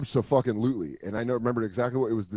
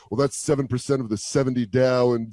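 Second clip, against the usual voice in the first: lightly voiced slick finance bro, laughing; a hint of a cocky broker; mock Wall Street guy; 4 dB louder than usual. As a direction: rattle off numbers like a cool trader. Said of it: "you have to be like".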